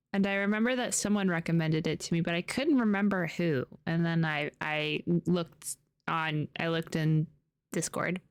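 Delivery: talking with a sore bitten tongue. Real, not acted. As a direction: speak carefully around a sore tongue. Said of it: "I bit my tongue, and now my tongue is sore".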